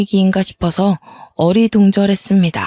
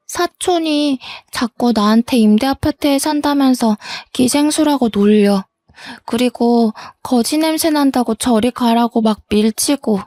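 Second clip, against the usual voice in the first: higher, lightly voiced child; hurt little girl; 4 semitones higher than usual. Daughter tells her mother about the bullying, lightly childlike and hurt. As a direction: tell it like a wronged child.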